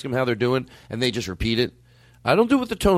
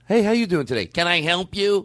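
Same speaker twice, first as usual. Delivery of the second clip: scripted rep greeting; 3 semitones higher than usual. Retold or imitated. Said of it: "If you get someone that goes".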